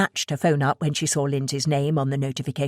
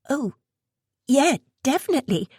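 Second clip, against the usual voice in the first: lame reply; 9 semitones higher than usual. Acted. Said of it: "Sophia replied lamely".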